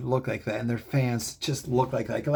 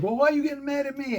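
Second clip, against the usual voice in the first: imitating wife; 11 semitones higher, faster than usual. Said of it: "She's like".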